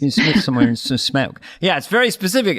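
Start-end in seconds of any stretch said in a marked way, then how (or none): 0.0-1.4 tentative copy of a Philly accent; low, rough attempt at Philly. Shown as a demonstration. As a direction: try out a Philadelphia accent, lower. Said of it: "Can I just hear it".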